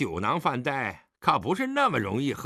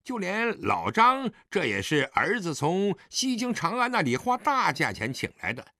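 smug, provoking son in a higher voice; provocative; 8 semitones higher than usual. Acted. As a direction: needle your father with showy hesitation. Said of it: "狄景辉挑衅地说".

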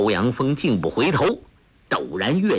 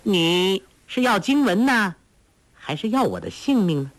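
mocking laugh in voice; 7 semitones higher than usual. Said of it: "黄蓉笑道".

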